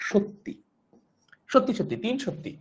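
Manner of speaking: সত্যি said shorb-tti, with a doubled t; careful pronunciation demo. Shown as a demonstration. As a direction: spell out সত্যি with the held double t. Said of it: "এইভাবে".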